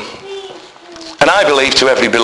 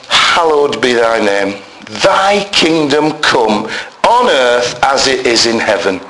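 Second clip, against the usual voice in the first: prayer recitation; 4 semitones lower, slower than usual. Acted.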